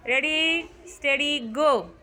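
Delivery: slow, drawn-out starter's call; countdown. Real, not acted. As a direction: stretch each word like a race start. Starting the cracker race.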